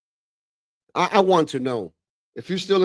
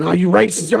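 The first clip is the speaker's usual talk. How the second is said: higher, louder mock protest, "No, you racist"; lightly hammed-up indignant retort; mocking whiny accusation; 6 semitones higher, 7 dB louder than usual. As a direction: sneer it like a touchy kid. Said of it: "be like".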